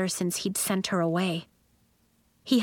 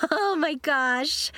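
high, slow gleeful cackle; cackling; 7 semitones higher, slower than usual. A narrator's reading. Lacey mocks the frozen instruments, cackling. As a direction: draw it out with mocking glee. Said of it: "Lacey cackled".

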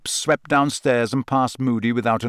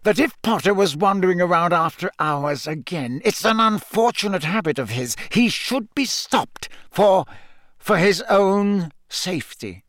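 fake calm; 6 semitones higher than usual. A narrator's reading. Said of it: "in a voice of forced calm".

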